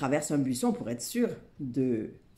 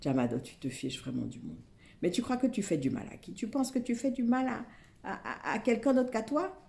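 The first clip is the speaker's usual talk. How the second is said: scolding; 8 semitones higher than usual. A narrator's reading. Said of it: "elle le dispute très fort".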